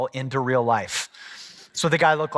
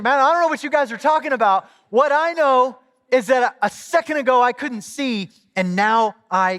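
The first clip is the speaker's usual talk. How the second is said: put-on country accent; 9 semitones higher, 4 dB louder than usual. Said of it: "with a country accent".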